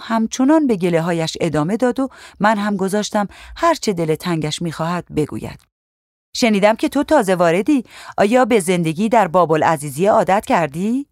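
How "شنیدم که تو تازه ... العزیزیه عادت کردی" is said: put-on young officer chatting up the newcomer; curious policewoman. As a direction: sound out the new girl. Najah questions the newcomer.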